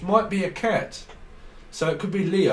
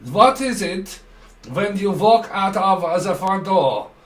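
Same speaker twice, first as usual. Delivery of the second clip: mock interrogator; 2 semitones higher, 5 dB louder, slower than usual.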